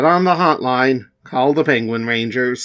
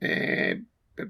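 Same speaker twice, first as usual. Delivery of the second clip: stammering penguin; 8 dB quieter than usual. Acted.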